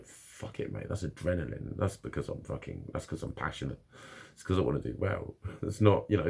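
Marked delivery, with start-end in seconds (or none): 0.1-0.9 a whispered pep talk to himself; whispered self-talk. Retold or imitated. Telling himself to push through nerves, whispered. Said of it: "but I just go". 0.9-5.3 low, soft inner voice; quiet self-reassurance. Retold or imitated. Reassuring himself about shaky hands, murmured softly. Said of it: "but I just go".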